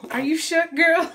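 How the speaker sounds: loud, high, laughing question; laughing tease. Real, not acted. Baby startled, mom teasing.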